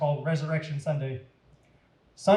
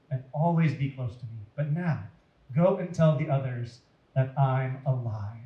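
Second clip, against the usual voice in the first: gentle; 3 semitones lower than usual. Acted. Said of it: "Jesus said gently".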